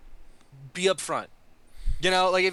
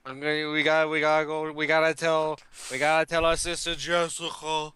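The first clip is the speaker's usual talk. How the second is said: put-on Italian accent. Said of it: "You almost lost your accent there".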